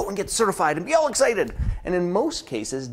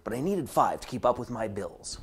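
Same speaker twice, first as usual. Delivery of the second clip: softer, a mock-worried mutter; glum inside voice; 5 semitones lower, 6 dB quieter than usual. Coach's inner voice about unpaid bills, softer and deflated. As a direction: undercut the cheer quietly. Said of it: "the inside voice says".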